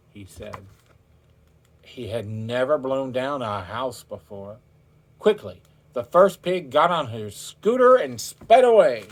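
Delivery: usual speaking voice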